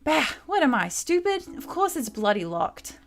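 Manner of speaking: lightly voiced thief girl, a touch of grumbling; mildly annoyed, cursing the bloody door in a put-on accent; grumpy Kid. Kid grumbling at the locked door, lightly voiced and annoyed.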